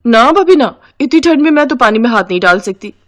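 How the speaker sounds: sister-in-law digging her heels in; acted refusal. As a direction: refuse outright, easing off after the first words. Sister-in-law refuses chores in story.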